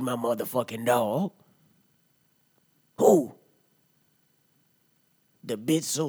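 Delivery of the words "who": shrill outraged Who; high exasperated yell. Acted. Asking the crowd who feeds his dog, yelling. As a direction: shout the question up high.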